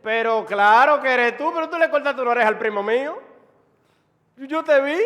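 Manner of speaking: loud, high indignant outburst; shouted accusation from the victim's relative; accusing relative. Acted. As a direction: confront him as an outraged eyewitness. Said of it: "aquí aparece uno y dice".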